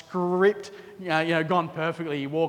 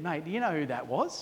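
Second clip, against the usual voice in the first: hushed aside; 2 semitones lower, 8 dB quieter than usual. Retold or imitated. Nudging mate while out surfing.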